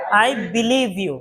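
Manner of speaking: slow, word by word; slow, careful model phrase. Shown as a demonstration. Teacher slowly modelling a phrase for the class, slow and deliberate. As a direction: say it slowly so the class can follow. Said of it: "আমি তোমাকে বিশ্বাস করি".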